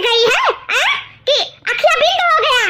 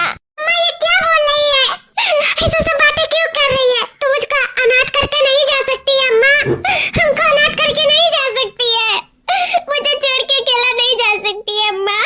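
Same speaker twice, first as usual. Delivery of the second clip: tearful pleading; 3 semitones higher than usual. Acted. Daughter begging her dying mother, sobbing. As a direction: cry out to her mother not to go.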